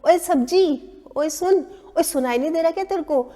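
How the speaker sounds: brusque "oye" call to a vendor, speeding up; mock-rude lady yelling from her balcony. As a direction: holler rudely at the vegetable seller. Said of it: "मतलब इस तरह से बोल रही थी".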